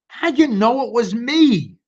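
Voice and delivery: high wailing turkey voice. Acted. Turkey caught by Sheep, high mock wail. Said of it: "wailed Turkey".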